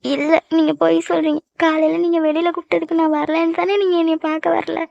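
hurt, tearful accusation; crying. Acted. Girlfriend accusing boyfriend of lying, crying. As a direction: accuse him through mild tears. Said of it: "அழுதுட்டு இருக்கியா".

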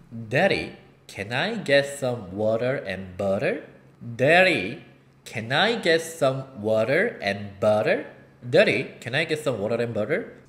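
"water" en "butter" langzaam met getikte t; slow flap T drill. Shown as a demonstration. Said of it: "리을 발음 될 수 있다".

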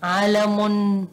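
علم stretched out syllable by syllable; slow sounding-out. Shown as a demonstration. Teacher writing a word for pupils, slowly sounded out.

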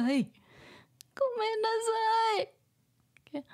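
little sister voice. Acted. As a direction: apologize meekly like a small child.

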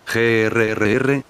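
slow, drawn-out mock growl; annoyed growl. Majin Buu can't catch the chocolate, slow annoyed growl. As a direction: growl out the frustration. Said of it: "gruñó molesto".

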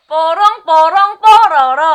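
loud excited call; excited shout. Real, not acted. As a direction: shout the answer triumphantly.

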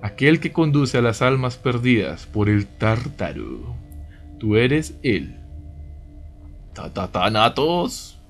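slow, grave voice from beyond the grave; dark lord. Acted. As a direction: intone it slowly like a dark lord. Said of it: "Me gusta tu voz de ultratumba". (voz de ultratumba, lenta y solemne)

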